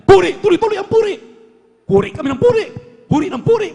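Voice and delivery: high, loud, fast cry of praise; fervent shout. Real, not acted. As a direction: shout it out in excited worship. Preacher urging praise. (masiglang sigaw ng papuri)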